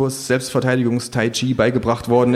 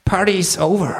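high put-on one-liner; high-voiced cool catchphrase; kangaroo action hero; 9 semitones higher than usual. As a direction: announce the end in the kangaroo's raised voice. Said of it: "sagt das Känguru".

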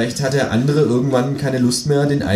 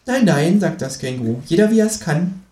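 higher mocking kangaroo, quick then slowing and fading; 5 semitones higher than usual. Kangaroo teasing narrator about his first-person stories, higher mocking voice.

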